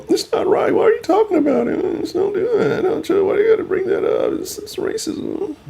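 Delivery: high whiny mock voice of an offended commenter. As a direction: squeal it like a pearl-clutching commenter. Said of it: "bitching in the comments".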